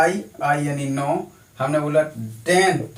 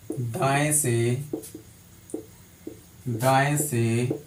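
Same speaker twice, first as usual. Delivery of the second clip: 1 slow dictation; 3 semitones lower, 4 dB quieter, much slower than usual. Shown as a demonstration. Dictating a question slowly.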